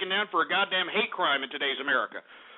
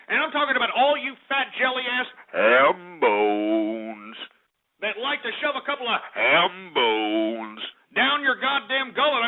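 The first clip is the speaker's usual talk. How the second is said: slow drawn-out rant. Acted. Ranting at fat people.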